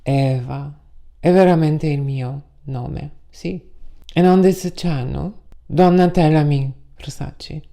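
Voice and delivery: mock Italian diva greeting; Italian-style opening. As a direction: play a theatrical Italian diva. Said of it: "I hope I didn't scare you too much with that Italian overture".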